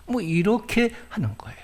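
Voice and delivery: an unvoiced whisper tossed off after the quote; hushed aside to the congregation. Real, not acted. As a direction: drop to a breathy whisper, as if letting them in on it.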